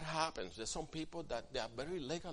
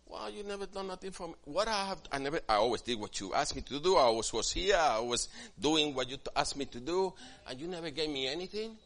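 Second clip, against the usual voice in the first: resentful complaint; 3 semitones higher, 7 dB louder than usual. Retold or imitated. Prodigal's brother complaining.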